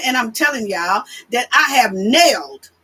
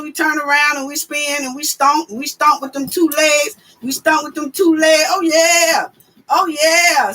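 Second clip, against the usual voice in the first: excited shout; 2 semitones higher than usual. Retold or imitated. Hyped describing double dutch stomping.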